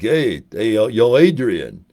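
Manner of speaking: lightly voiced boxer, drawn out; a hint of a movie boxer calling his girl; Rocky. Calling out to Adrian, light boxer impression. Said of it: "Rocky's like".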